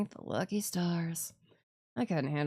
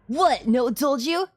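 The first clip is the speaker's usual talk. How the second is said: louder, higher smug tease; gloating bully; 3 semitones higher, 5 dB louder than usual. Acted. Bran gloating about the hunt, smug. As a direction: savor their confusion.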